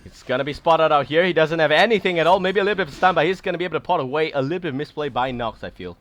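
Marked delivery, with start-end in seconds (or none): 0.1-4.3 excited esports play-by-play; game caster jumping on a mistake; live play-by-play. Real, not acted. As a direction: call the play with rising urgency.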